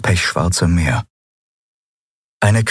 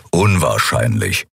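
much lower, slow gruff grumble; grumbled; 7 semitones lower than usual. A narrator's reading. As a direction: rumble it with finality. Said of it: "brummte Keru". (tiefes, brummiges „unwahrscheinlich“)

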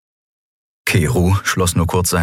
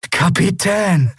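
high, drawn-out exclamation; relieved cry; 12 semitones higher, slower than usual. Acted. Boy hearing his captain over radio, slow high cry. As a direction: draw the title out in relief.

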